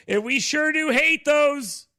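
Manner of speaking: high, loud and slow hammed-up heel; wrestler trash talk. Wrestler baiting the local crowd, slow hammed-up taunt. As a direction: drag it out to rile the crowd. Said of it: "that professional wrestling thing".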